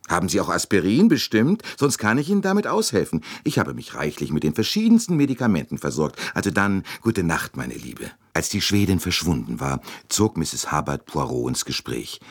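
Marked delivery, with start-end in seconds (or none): 0.1-8.1 chatty American lady. Acted. Mrs Hubbard pressing a magazine on the Swede, high and fussy. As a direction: gush over her like a busybody matron.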